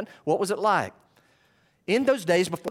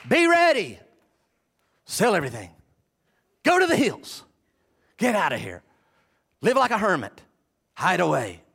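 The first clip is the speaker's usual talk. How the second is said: punchy, raised commands with falling ends; mock urgent orders. Preacher parodying a wrong answer on being ready, mock urgent commands. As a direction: bark out short mock-alarm orders.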